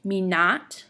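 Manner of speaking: light "me", then "not" weighted and rising; demonstrating an iamb, weight on "not"; iamb, stress on NOT. Shown as a demonstration. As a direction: lean on "not" after a short "me". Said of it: "that's two iambs".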